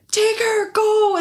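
high, pressing command; retold urgency. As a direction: order it urgently, pitched right up. Retold urgent order to husband.

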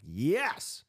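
high, rising exclaimed yes; excited agreement. Retold or imitated. Host reenacting agreement with the talk, excited. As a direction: cheer it like an eager listener. Acting out keen agreement with speaker.

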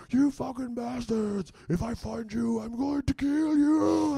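high, drawn-out enraged roar; hammed-up top-of-the-lungs yelling; retold roaring yell. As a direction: bellow a slow threat into the night. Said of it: "I started yelling".

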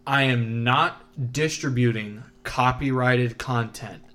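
slow, emphatic mock disclaimer; deliberate, formal disclaimer; mock announcement. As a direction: announce it like an official notice, spaced out.

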